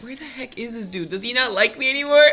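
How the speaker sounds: fake-sob the question, breaking into a laugh; mock crying viewer. Imitating an abandoned viewer asking after Joey, mock crying. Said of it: "you're probably wondering".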